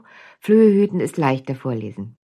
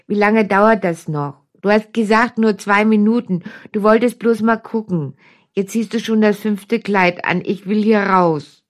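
nasal whine; 3 semitones higher, 3 dB louder than usual. Acted. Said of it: "langweilt sich ein Kind".

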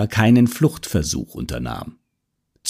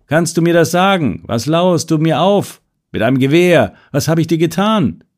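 getting louder; 5 semitones higher than usual. Acted. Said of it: "Und dann lauter und lauter".

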